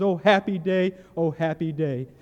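loud, fervent cry fresh out of the river; joyful testimony. Retold or imitated. Newly baptized man to the preacher on the bank, loud joyful proclaiming. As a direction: proclaim it with new-born joy. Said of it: "he goes".

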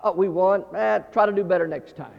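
mock nonchalance; easygoing fan. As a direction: shrug off the mistake, unbothered. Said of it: "amazing the difference it makes in my attitude".

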